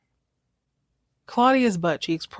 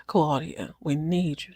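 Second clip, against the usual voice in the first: lightly voiced brooding cowboy; a hint of brooding cowboy, softer; 3 semitones lower, 4 dB quieter, slower than usual. Caller ignoring Crystal's hello, mildly brooding cowboy voice. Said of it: "this is my brooding cowboy voice".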